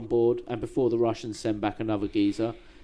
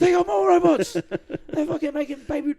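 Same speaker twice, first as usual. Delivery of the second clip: cooing over babies; 12 semitones higher, 5 dB louder, slower than usual. Real, not acted. Cooing over baby robot ships.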